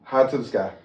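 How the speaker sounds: loud, high hype; hyped up. Real, not acted. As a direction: shout it like a celebration. Hyped high-five ritual.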